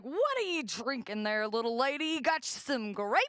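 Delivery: drawling redneck who builds to a loud high rant; mock a scornful Alabama drinker getting worked up; mock Southern bar guy. Guy at the bar mocking her shandy, rising into a shout.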